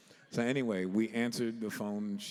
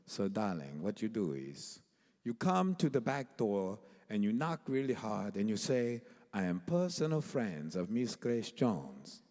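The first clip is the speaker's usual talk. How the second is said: A singer. Retold or imitated. Star instructing young musicians on the back door, affected diva. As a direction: imitate a grand, affected star. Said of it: "that's how she really sounded".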